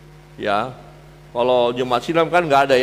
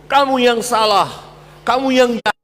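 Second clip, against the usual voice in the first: high, loud accusing quarrel voice; a preacher mimicking a blaming spouse; 9 semitones higher, 4 dB louder than usual. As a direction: throw the blame at the other. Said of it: "bahkan menuduh".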